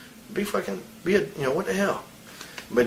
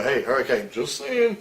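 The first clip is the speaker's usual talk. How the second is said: mocking imitation. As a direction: mimic them with a teasing sing-song. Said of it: "Everybody would go".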